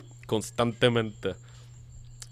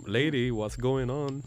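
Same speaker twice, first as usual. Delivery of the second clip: desconcierto; 3 semitones higher, much slower than usual. Retold or imitated. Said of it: "Es like".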